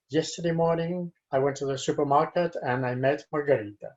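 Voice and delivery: "Yesterday morning" kept level, rest run on quickly; level, run-on reading. Shown as a demonstration. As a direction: read through to "Margarita" without pauses or lifts. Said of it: "without going up, not down".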